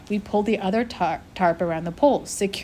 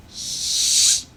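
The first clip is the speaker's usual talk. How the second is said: whispered shush. A narrator's reading. The narrator hushes the hungry child in the graveyard, whispering. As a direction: hush the child without a sound. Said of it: "I whispered".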